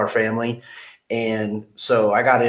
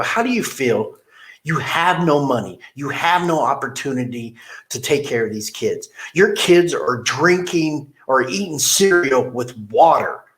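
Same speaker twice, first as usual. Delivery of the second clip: agitated; 3 semitones higher than usual. Retold or imitated. Boss scolding salesman about his kids, mildly agitated. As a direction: lecture him with rising frustration. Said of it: "I was getting a little agitated".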